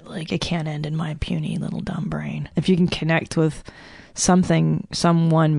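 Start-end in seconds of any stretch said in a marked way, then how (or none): 0.1-2.5 whispered aside. Real, not acted. Self-deprecating aside.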